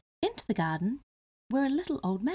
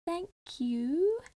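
slightly nervous; 9 semitones higher than usual. Acted. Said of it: "in a slightly nervous voice".

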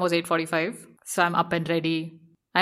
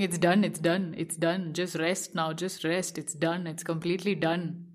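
soft and calming, easing toward rest; soothing inner voice; 5 dB quieter than usual. Retold or imitated. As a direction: lull yourself to rest after exhaustion. Mind soothing an exhausted body.

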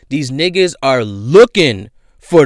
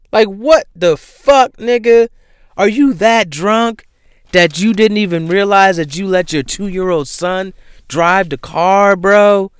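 outraged disbelief; 6 semitones higher than usual. Real, not acted. Ranting at Pooch's drunk driving.

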